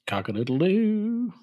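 high, slow drawn-out rooster crow. Pretend. Running rooster joke.

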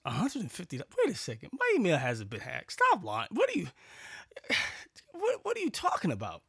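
indignant retort, jumping high on the questions; indignant disbelief. Retold or imitated. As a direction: react to a brazen scam pitch, pitch climbing. Reacting indignantly to a scam demand.

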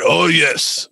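hint of a stereotyped Asian accent; lightly accented old sensei, hammed-up; Master Splinter. Comic mocking a cartoon sensei's voice, stereotyped Asian accent. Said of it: "the racist ass Master Splinter".

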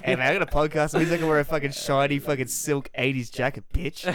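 hammed-up brash comeback; mock swagger. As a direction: play a puffed-up podcaster showing off. Mock boasting as the jacket wearer.

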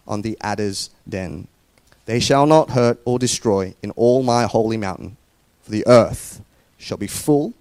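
solemn, unhurried Bible reading; scripture reading. Acted. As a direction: read it like scripture from the pulpit. Reads scripture aloud to congregation.

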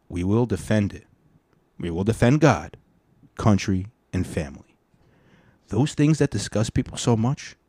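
emphatic speech reading, punched key words; rally speech. Acted. Host reading a politician's speech to listeners, oratorical delivery.

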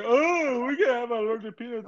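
high-pitched mimicry of a complainer; mock complaining.

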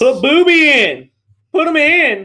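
high, slow, drawn-out character voice; movie character voice. Retold or imitated. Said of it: "Put Booby in if you wanna win".

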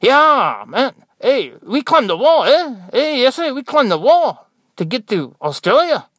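put-on high, loud comic Mexican accent. Nurse winding up doubtful patients, loud mock Mexican accent. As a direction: boast loudly in a hammed-up Mexican accent. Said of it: "there's no Mexicans in New Zealand".

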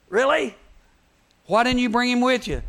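loud, high, indignant questioning; angry disbelief. Retold or imitated. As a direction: demand an answer as an acted angry official. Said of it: "The Pharisees get mad".

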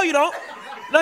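ordinary talk

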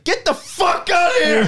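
high, laughing imitation of a furious dad; mock angry dad. Dad at the door throwing the stranger out, laughing mock anger. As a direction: ham up the dad yelling through laughter. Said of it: "my dad was like".

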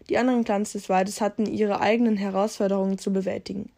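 measured read-aloud storyteller voice; story narration. A narrator's reading. YouTuber reading out a Warrior Cats story, story narration. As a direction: read it out like a tale.

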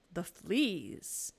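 drawn-out disbelieving question; incredulous echo. A narrator's reading. Corrie balks at thanking God for fleas, incredulous.

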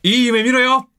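Yanagisawa Shingo. Acted. Bandmate performs a catchphrase on the host's request, high-pitched impression. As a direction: throw out the catchphrase in a high put-on voice. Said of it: "柳沢慎吾さんのやつを加藤さん".

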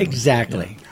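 whispering. Acted. Answers in a playful whisper.

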